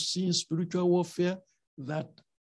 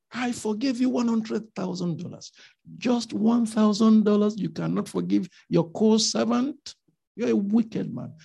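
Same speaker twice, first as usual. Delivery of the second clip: master rebuking servant; 5 semitones higher, 3 dB louder than usual. Retold or imitated. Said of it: "The boss had".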